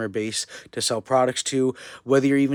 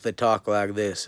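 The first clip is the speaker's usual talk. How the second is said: lightly put-on American South accent; Southern US accent; slower than usual. Shown as a demonstration. Speaker showing how the South talks, light Southern US accent. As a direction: talk with a touch of Southern US twang. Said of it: "in the South".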